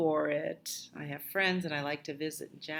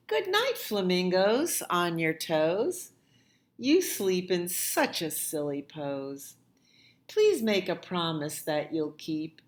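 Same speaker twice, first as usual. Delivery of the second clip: put-on reading to children. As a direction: read aloud to little ones. Reads rhyming picture book.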